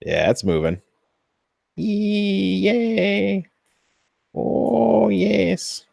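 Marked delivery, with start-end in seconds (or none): 1.8-5.9 much higher, gleeful little cheer; delighted. Real, not acted. Maker watching the probe move, high delighted cheer. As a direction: squeal it like the test just passed.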